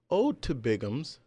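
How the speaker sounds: hammed-up old English recital; shakespeare verse. Recites mock archaic ode.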